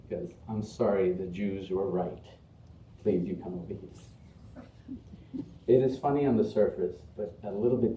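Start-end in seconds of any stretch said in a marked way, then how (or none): 0.5-5.4 soft, slow mock-British apology; lower, apologetic British comic host; imitated British accent. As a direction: trail down politely in mock British. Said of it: "he has his British accent".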